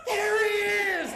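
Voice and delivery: high excited shout; girls shouting. Retold or imitated. Teenage girls spot the red convertible, shrieking. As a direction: scream it out spotting him. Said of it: "everybody goes".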